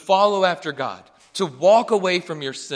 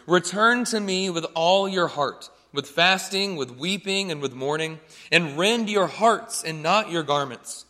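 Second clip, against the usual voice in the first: scripture reading. Acted. Preacher reading Joel to the congregation, measured and solemn. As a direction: read the verses with weight.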